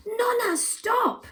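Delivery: high, loud urgent shout. Acted. Jessie stops Nonna at the busy road, shouting high. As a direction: yell to stop her at the road. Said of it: "shouted Jessie".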